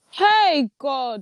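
loud high shout. Reacting to news that someone has been arrested: shouting. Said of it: "I keep on shouting".

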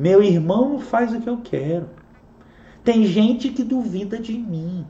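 weak, tiny, soft, feeble put-on mocking voice. Reading back what the listener wrote, in a mocking little voice. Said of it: "Estou falando com essa vozinha".

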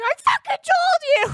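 shrill, loud screech, pitched very high. Imagining a man screaming at a cat: imitating someone screaming at a cat. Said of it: "screaming at a cat".

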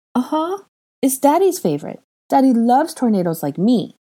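put-on very high, pouting little boy voice. Narrator reading Aurelian's reply to Hermione, pouting. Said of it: "Aurelian said with a pout as he stared at Draco with tear filled eyes".

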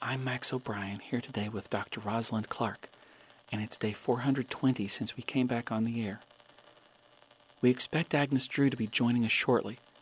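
soft, half-whispered voice. Radio host opening a broadcast, keeping quiet for a birthday surprise, half-whispering. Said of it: "I'm whispering because it's Agnes's birthday today".

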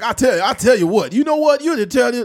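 high, loud cartoon rooster voice. Recalling a childhood cartoon character, doing a Foghorn Leghorn impression. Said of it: "That big chicken that sounded like".

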